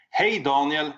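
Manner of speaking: put-on light Norwegian accent greeting. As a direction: call out with a hint of Norwegian accent. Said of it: "in Norwegian accent".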